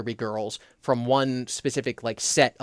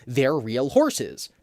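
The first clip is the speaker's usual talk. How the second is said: deadpan; much slower than usual. Shown as a demonstration. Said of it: "explaining the concept and then going".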